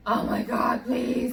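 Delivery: breathy, whispery pleading; reenacted breathless plea; retold scared plea. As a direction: plead under your breath, acting out fear. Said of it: "I'm scared as hell".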